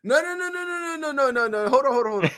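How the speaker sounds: high rising no no no fading down; excited protest. Real, not acted. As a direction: cut in, excited, then calm down. Sudden realization, fading high.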